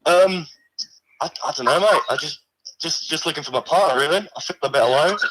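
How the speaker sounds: a lightly put-on, weak Australian accent; a mock Aussie bloke voice, barely there; poor Australian accent. A severed hand calls the stream in a poor Australian accent. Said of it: "I put a bit of a voice on it".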